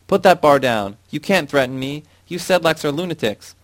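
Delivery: high, loud panicked shouting; shouting at the top of his voice. A narrator's reading. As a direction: scream threats while backing away. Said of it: "shouted at the top of his voice".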